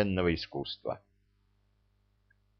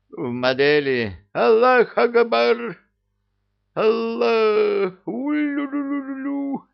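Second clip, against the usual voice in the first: high, loud rallying war cry; battle cry; 10 semitones higher, 4 dB louder than usual. A narrator's reading. King rallying his jinn before the attack, yelling. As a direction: rouse the troops into a frenzy.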